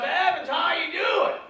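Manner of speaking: high, slow dazed greeting; spaced-out stoner drawl; stoned buddy. Retold or imitated. Stoned friend finally greets comic, dazed and slow.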